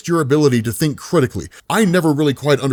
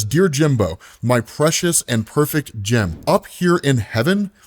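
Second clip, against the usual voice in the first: tender letter from heaven. Acted. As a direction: read it like a gentle goodbye from above. Karen's letter from heaven read.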